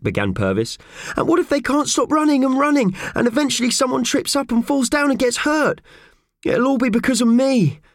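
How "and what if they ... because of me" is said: high, loud anxious spiral; wringing hands over the stampede. Acted. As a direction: fret louder and louder. Mickey spirals into worry.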